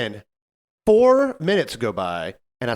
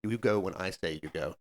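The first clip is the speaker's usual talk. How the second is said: quiet firm order; 6 semitones lower, 10 dB quieter than usual. Retold or imitated. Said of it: "I was like".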